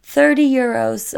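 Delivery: high, casual mock restaurant host; imitated Italian host, high and evasive; typical Italian man. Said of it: "He's like".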